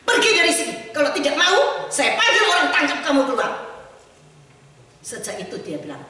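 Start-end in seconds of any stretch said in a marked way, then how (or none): 0.1-3.5 louder, higher harsh dismissal; retold angry usher. Usher turning Gandhi away from church, loud and harsh. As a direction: throw him out of the church.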